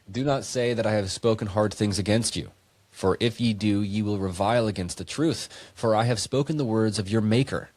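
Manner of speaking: put-on measured, solemn reading of an old verse; scripture reading. Friend reading verses to a podcast co-host, solemn scripture read. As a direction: read it out like holy writ.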